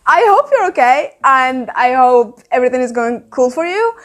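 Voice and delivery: talking while chewing gum. Real, not acted. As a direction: gum in the mouth, chewing as she speaks. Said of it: "I have chewing gum in my mouth".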